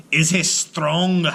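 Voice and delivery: slow loud giant question; giant asks. Acted. Giant asking Una about the baby, slow. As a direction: ask slowly, uneasy.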